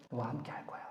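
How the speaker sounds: breathy soft whisper of comfort; gentle whisper. Acted. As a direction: whisper it close, like to a dear friend. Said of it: "부드러운 소리라는 거야". (다정하게 속삭이는)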